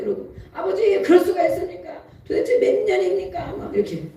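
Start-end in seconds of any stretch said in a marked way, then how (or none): 0.5-3.6 high-pitched whiny protest; throwing a tantrum at God. Retold or imitated. Child throwing a tantrum at Father in prayer, high and whiny. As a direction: sulk and demand of Father, pitched up. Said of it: "따지고, 땡깡 부리고 막".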